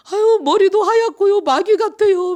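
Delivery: very high, loud mock bawling; hammed-up child's tearful squeal; crying child. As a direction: wail it like a terrified little kid. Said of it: "막 이렇게 울어요".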